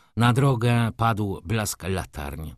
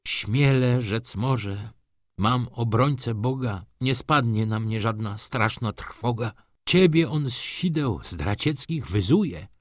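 slightly raised, measured devotional recital; recited psalm; 3 semitones higher than usual. Acted. Railwayman consoles a weeping gentleman, reciting scripture.

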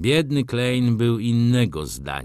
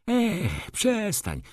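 calling out; 13 semitones higher, much slower than usual. A narrator's reading. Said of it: "zawołał Rzecki".

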